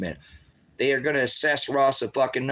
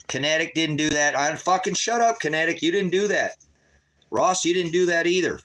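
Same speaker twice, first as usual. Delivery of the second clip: mock dismissive official; 4 semitones higher than usual. Voicing dismissive probation system.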